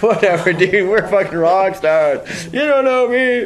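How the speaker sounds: loud, high, drawn-out boasting; hammed-up defiance, slow and loud; cocky bravado. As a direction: brag like mock rock stars. Group's cocky reply, acted.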